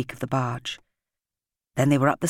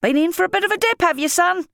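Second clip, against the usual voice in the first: much higher, louder teasing call; jolly bargeman; 5 dB louder than usual. A narrator's reading. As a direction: shout it over the water with a chuckle. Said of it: "laughed the man at the wheel".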